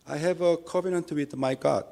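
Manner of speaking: ordinary talk, nothing marked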